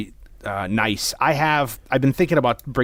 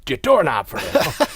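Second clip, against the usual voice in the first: imitating old neighbor; 6 semitones higher than usual. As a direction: mimic the neighbor explaining himself. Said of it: "he's like".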